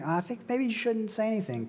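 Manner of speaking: quick, casual, noncommittal mumble; mock millennial hedging. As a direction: breeze through it like a vague millennial. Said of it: "like I would or like a millennial".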